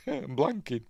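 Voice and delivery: real helpless chuckle into the words; laughing. Real, not acted. Host forgot an actress's name, laughing.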